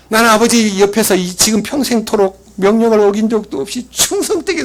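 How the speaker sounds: mildly acted indignant grievance to his father; elder son protests to his father, mildly acted irritation; irritated protest. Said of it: "막 항의를 하는 거예요. 짜증을 내면서".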